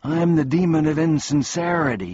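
high, loud tearful wail; sobbing. A narrator's reading. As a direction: confess in a hammed-up sob. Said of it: "he sobbed".

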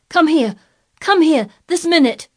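put-on high, loud, insistent boy; imperious child's ringing summons; shouting. A narrator's reading. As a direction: shout repeated urgent orders. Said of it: "he shouted to Dickon".

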